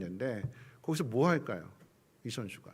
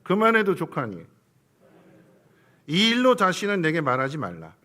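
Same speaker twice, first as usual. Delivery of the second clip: solemn command; 8 dB louder than usual. Shown as a demonstration. Preacher voicing God to the congregation, loud and firm. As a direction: read out loud and firm as God's word. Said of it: "이건 따라해서 해보겠습니다".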